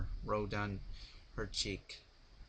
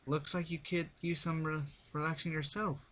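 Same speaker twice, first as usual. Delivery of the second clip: teasing comment; 7 semitones higher than usual. A narrator's reading. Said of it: "Rainbow commented".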